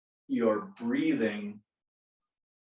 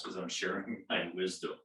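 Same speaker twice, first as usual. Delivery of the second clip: giggling; 3 semitones lower, 6 dB quieter than usual. Real, not acted. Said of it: "this is gonna make me giggle".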